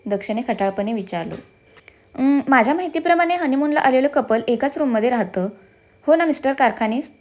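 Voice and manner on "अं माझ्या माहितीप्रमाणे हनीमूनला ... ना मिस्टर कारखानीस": playful, teasing sweetness; coy and flirty. Acted. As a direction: coax him coyly, like a pampered wife. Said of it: "लाडीकपणे दक्षच्या जवळ जात म्हणाली".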